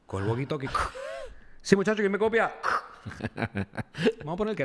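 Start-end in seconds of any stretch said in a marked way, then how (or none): 1.6-2.5 calling out. Retold or imitated. Calling friends over walkie-talkie.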